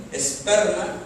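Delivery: "esperma" punched on the middle E; stress on the E. Shown as a demonstration. Pastor repeating the Greek word "esperma", stressing its middle E. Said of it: "con acento en la E".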